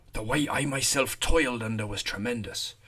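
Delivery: put-on reads the soldier's words in a rustic rural English accent; a light rural English accent for an old rifleman; lightly voiced rural English shepherd's accent. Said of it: "Don't know where that accent comes from".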